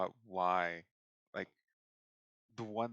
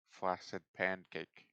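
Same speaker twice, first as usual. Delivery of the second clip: anime dub voice; slower than usual. Shown as a demonstration. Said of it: "the dub voice to say".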